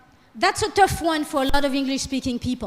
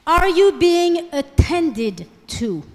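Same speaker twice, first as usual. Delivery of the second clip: "Are you being attended to?" spoken slowly, every word spaced, louder; slow careful demo; 2 semitones higher, 5 dB louder, much slower than usual. Shown as a demonstration. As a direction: model the sentence slowly and clearly for the class. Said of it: "which one do you think is the more emotional".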